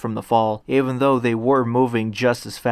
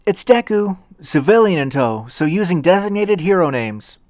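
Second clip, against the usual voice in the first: loud, higher call to those inside; yelling through the door; 6 semitones higher, 4 dB louder than usual. Acted. Deku yelling through the door to his classmates, loud and higher. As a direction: call out so the whole dorm hears. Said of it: "and yelled".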